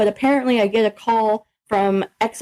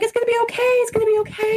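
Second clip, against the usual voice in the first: retold comforting; 11 semitones higher, faster than usual. Director comforts her as she cries.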